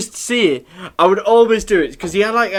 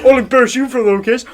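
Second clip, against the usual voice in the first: fast, higher mock Southampton accent, through laughter; imitated Southampton teacher; 7 semitones higher, 4 dB louder, faster than usual. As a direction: rattle it off as the Southampton teacher, cracking up. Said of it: "He actually said to us".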